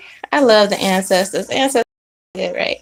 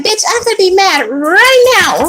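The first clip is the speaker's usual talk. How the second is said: higher and a bit louder, declaring it; mock firm resolve; 8 semitones higher, 5 dB louder than usual. You vowing to stay mad at him, mock firm. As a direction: announce your anger like a decision. Voicing yourself deciding to be mad.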